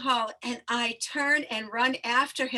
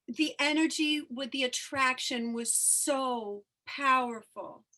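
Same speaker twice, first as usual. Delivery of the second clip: getting emotional; slower than usual. Real, not acted. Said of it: "I'm getting a little emotional".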